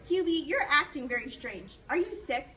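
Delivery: a mother alarmed, checking on her son; worried mom. Acted. Mom worried about Hubie.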